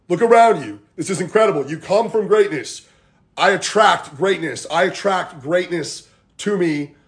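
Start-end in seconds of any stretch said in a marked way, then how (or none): 1.7-6.1 slow call for repeating; mantra. Shown as a demonstration. Coach asking viewers to say it along, slow mantra. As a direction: lead the group line by line, slowly. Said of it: "Say it with me".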